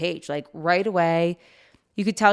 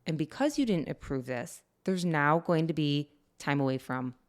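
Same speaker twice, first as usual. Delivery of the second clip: calm and loving; 3 semitones lower, 4 dB quieter than usual. Retold or imitated. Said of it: "We very calmly were like".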